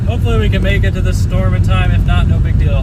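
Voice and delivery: talking while the car bounces; on a bumpy road. Real, not acted. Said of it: "This road is really bumpy".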